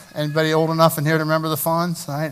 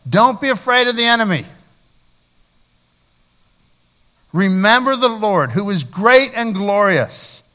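higher and louder, drawn-out battle call; rallying commander; 5 semitones higher, 5 dB louder, slower than usual. Acted. Nehemiah urging the people to fight for their families. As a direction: rouse the troops to fight. Rallying speech read aloud.

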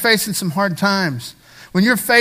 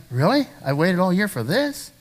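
softer, let-down disbelief; mock disappointment; 5 dB quieter than usual. Preacher voicing a let-down traveller on vacation, mock disappointment. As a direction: deflate after the big build-up.

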